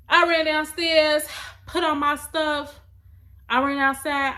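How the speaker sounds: loud, high, frantic retelling; panicked, almost shouting; urgent rush. Real, not acted. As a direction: burst out as if running again. Panicked rush after her mom.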